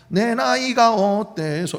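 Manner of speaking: slow, drawn-out line; playful mock sing-song; song-title joke. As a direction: stretch it out like a trot-song line. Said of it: "이러지 않아요".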